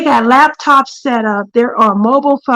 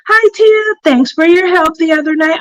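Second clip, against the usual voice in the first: cheery reading voice; 6 semitones higher than usual. Real, not acted. Reading viewer's chat message.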